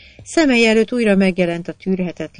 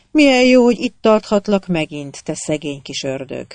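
delighted; 6 dB louder than usual. Acted. Queen holds her son.

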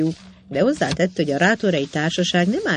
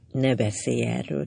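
softly, a bit withdrawn, asking; hushed, let it drop; quiet plea; 5 semitones lower, 5 dB quieter than usual. A narrator's reading. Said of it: "kérte a leány". (halk kérés)

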